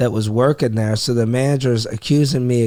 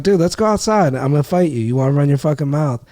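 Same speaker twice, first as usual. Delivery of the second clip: retold challenge; 2 semitones higher than usual. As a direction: replay calling him out to fight. Retold bar fight challenge.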